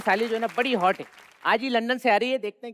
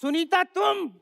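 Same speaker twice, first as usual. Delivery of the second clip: high-pitched panic at being caught; acted shock; 6 semitones higher, slower than usual. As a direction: gasp it out high, horrified to see the wife. Caught out by his wife. (घबराकर, ऊँची आवाज़ में हैरानी)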